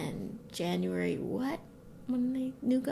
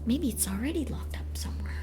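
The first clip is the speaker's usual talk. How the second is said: whisper; 4 dB quieter than usual. Real, not acted. Conspiratorial aside.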